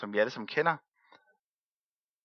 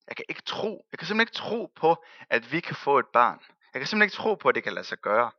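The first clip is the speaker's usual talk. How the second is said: doubting Abraham; 2 semitones higher than usual. Retold or imitated.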